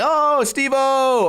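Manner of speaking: high, drawn-out cheer for a friend; excited greeting. Retold or imitated. Friends greeting the wing-bringer at the party, excited. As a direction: imitate a crowd's delighted hello.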